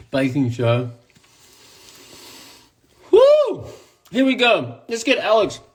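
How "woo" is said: high, loud "woo"; excited whoop. Real, not acted. Host kicking off the baking show, excited whoop. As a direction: let out a big high whoop.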